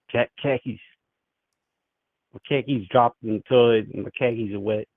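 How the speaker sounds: badly faked Boston accent; tentative mock Boston accent. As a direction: try out a Boston accent, dropping the R in car keys. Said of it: "Is that how people from Boston talk?".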